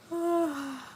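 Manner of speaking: high drawn-out yawn; big yawn. Real, not acted. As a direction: let out a long sleepy yawn. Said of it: "So I'm, like, yawning".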